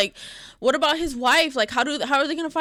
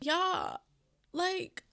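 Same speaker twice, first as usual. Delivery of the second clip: tearful and hushed; 7 semitones higher, 7 dB quieter than usual. Real, not acted. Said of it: "why do I feel like I'm finna cry even more".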